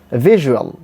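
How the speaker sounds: VISUAL with a short, relaxed o after the zh; short o glide. Shown as a demonstration. Teacher models the word for learners, short o glide. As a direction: say "visual" with a light, unrounded-out u. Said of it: "The sound is o".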